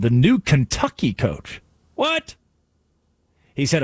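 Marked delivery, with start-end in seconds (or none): 2.0-2.4 mock disbelief.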